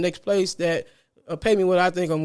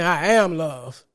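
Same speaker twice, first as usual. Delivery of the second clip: energetic affirmation; 3 semitones lower, much slower than usual. Shown as a demonstration. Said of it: "You see the energetic shift?".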